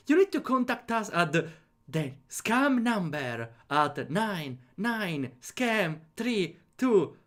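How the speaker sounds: stiff robotic spam call voice. Retold or imitated. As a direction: read it like an automated scam call. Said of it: "Always a robotic voice".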